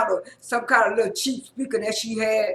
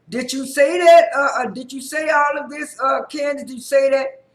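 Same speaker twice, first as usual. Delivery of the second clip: retold accusing shout, pitched up and loud; angry confrontation; 3 semitones higher, 5 dB louder than usual. Karen confronting Candace about the recording, loud and accusing. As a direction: demand an answer, hammering the question. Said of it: "and then so Karen said".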